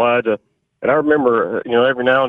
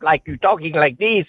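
voice taken up; 4 semitones higher than usual. Shown as a demonstration. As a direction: let the pitch creep up as you talk. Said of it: "keep taking your voice up".

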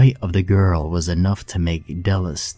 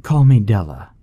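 warm smile; 3 semitones higher, 7 dB louder than usual. Acted. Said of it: "smiling warmly at the girl".

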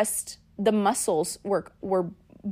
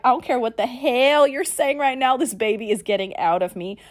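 defiant; 3 semitones higher than usual. Retold or imitated. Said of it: "I was like".

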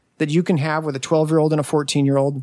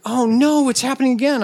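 high-pitched imitation of an alarmed wife; mock dismay; 7 semitones higher than usual. Wife's alarm acted out.

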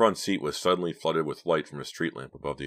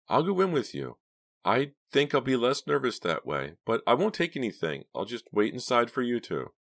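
high-pitched character voice; nervous young woman; 9 semitones higher than usual. A narrator's reading. Driver justifying herself to the leader, nervous resolve. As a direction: explain it in a raised voice. Driver repeats and explains decision.

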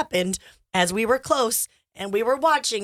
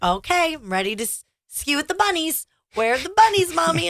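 put-on little boy; 7 semitones higher than usual. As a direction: imitate your excited young son. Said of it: "he was like".

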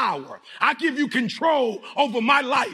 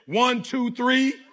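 rallying count-in; much slower than usual. Real, not acted. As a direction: fire them up with the count. Rallying crowd to chant again.

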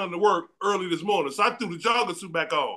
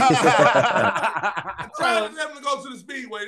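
laughing protest shout. Real, not acted. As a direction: shout your defense through laughter.

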